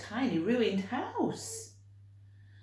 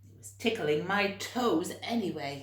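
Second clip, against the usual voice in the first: giant's cheerful aside; 3 dB louder than usual. Acted. George giving away sock.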